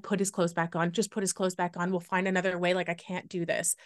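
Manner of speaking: hushed tearful plea; retold crying plea. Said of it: "just crying".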